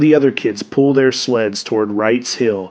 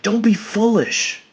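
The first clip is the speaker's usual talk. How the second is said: higher, brusque mother's scolding; 9 semitones higher than usual. A narrator's reading. Mother dismissing her son's complaint, brusque. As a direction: brush him off briskly in a higher voice. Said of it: "his mother tells him brusquely".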